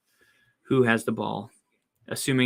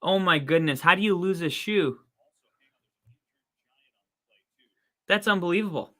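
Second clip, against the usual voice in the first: high, disbelieving exclamations; can't believe what you see; surprised; 5 semitones higher than usual. Real, not acted. Player loses shoe on play.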